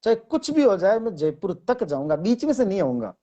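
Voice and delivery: emphatic तक in a determined statement; stress on तक. Shown as a demonstration. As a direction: lean on तक to show resolve. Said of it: "तक है वो extra बल डाल".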